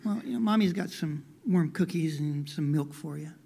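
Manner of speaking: understated choked-back sadness, kept quiet; holding back tears. Acted. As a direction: gently offer comfort while swallowing mild sadness. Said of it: "she choked back the tears".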